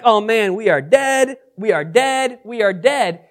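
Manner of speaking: mock panic that fades with each repeat; a lightly acted frightened servant; a touch of retold panic, repeating himself; panicked. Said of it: "he's panicked".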